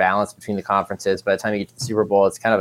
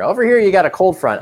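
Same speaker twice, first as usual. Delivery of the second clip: higher, playful TV weather report voice; tv weatherman impression; 10 semitones higher, 4 dB louder than usual. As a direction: point at the map like a TV weatherman. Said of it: "I'm doing my weatherman impression here".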